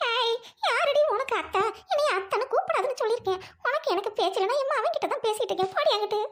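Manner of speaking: high, tearful scolding; indignant rebuke. Acted. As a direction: lash out at the daughter-in-law mid-wail. Mother-in-law rebuffs the daughter-in-law.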